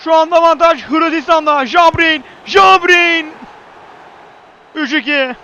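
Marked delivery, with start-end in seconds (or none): 1.7-3.3 screaming football commentator. Real, not acted. Penalty kick taken.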